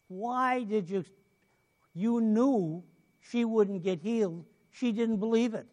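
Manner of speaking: imitated complaint to the Lord; mildly acted indignant griping. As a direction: protest with drawn-out, emphatic words. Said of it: "he was mumbling and griping".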